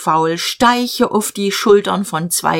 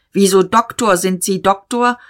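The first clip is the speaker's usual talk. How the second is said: surprised call; 3 semitones higher than usual. Acted. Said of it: "Diederich rief".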